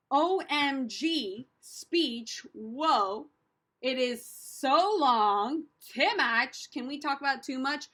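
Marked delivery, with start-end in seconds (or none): 0.1-3.3 very slow, drawn-out exaggeration; hammed-up overwhelmed reaction; mock dismay. Mock dismay at long speech. 3.8-6.7 slow, stretched-out exaggeration; hammed-up overwhelmed groaning about it; mock dismay. Mock dismay at long speech.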